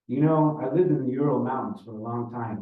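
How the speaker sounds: put-on older Russian man reminiscing; Ivan, Russian storyteller. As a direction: tell it with a Russian accent. Voices Ivan telling his story.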